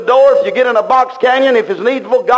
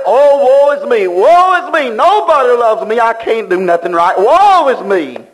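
mock self-pity. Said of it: "you pine and you brood and you say".

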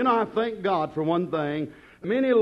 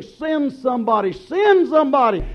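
giant roaring; 5 semitones higher, 5 dB louder than usual. Acted. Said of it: "that big giant roaring out saying".

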